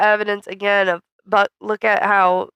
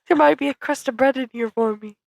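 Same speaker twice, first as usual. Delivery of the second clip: higher, lightly put-on character voice; impression voice; 4 semitones higher than usual. Redoing the bit for the co-host, lightly put-on impression voice. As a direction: do a hammy little impression. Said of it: "That's my impression".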